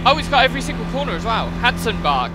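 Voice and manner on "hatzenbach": German place name in a put-on German accent; amateur attempt at German pronunciation. Shown as a demonstration. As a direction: have a rough go at a German accent. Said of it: "trying to say it with a German accent".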